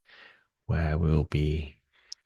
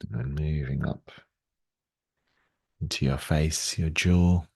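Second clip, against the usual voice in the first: guided meditation; 2 semitones lower than usual. Real, not acted. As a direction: gently lead them through the movements. Guides a gentle warm-up.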